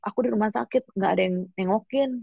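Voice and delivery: high, hurt lament; a high hurt whine at being left alone; bitter complaint. Retold or imitated. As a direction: complain that nobody came. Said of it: "Aku bilang".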